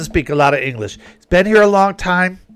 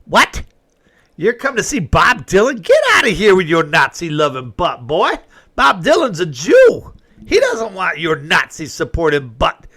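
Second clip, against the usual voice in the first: raised, half-joking indignant retort; mock outrage. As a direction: scold them like they just insulted the singer. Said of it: "looking at these people like".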